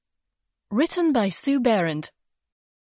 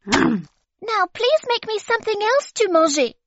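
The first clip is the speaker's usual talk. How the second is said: put-on much higher, louder baby voice with full mouth; baby chewing a painting and demanding more; insisting, mouth full; 12 semitones higher, 5 dB louder than usual. A narrator's reading. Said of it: "insisted Baby, her mouth full".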